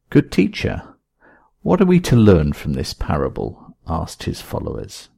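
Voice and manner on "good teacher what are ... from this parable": follower voice. Acted.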